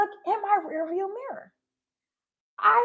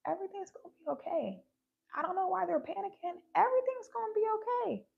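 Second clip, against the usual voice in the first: softer, quick murmur to yourself; calm self-talk; 7 dB quieter, faster than usual. Retold or imitated. Dreamer reassuring herself as the plane goes down, softly and calmly. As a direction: soothe yourself under your breath. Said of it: "I was calm".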